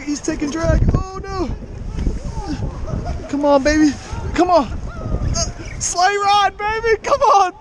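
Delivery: straining, excited cries while reeling; urgent, strained coaxing as the fish pulls; fighting a fish. Real, not acted.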